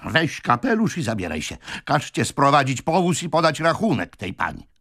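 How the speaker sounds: high-pitched indignant reproach; angry scolding. A narrator's reading. Brother berates his eloping sister, angry scolding. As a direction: lay into her, pitch leaping up.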